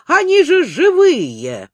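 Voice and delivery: медленно, с восторгом; ахнуть от восхищения; восторженно. Acted. Коротышка восхищён динозаврами. (восторженный возглас)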